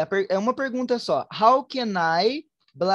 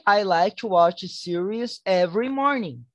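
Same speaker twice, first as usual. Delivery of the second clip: slow model answer. Shown as a demonstration. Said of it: "You can say".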